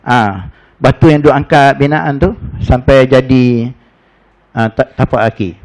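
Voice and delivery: ordinary talk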